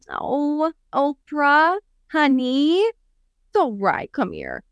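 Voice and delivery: slow, tender mock comfort; hint of a gentle coddling voice; mock soothing. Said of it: "he wasn't going".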